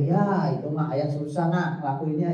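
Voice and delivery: slow, lightly voiced father bargaining; a hint of a father pleading with his child. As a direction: drag it out like a father haggling with his kid.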